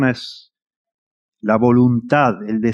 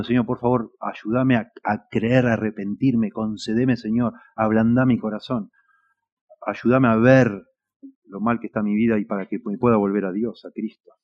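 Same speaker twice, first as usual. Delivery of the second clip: soft pleading prayer, a little quieter; humble prayer; 2 semitones lower, 4 dB quieter than usual. Shown as a demonstration. Preacher models a sinner's prayer, humble and soft. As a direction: pray it gently, asking for help. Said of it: "andate diciendo".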